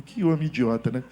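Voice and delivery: normal talking voice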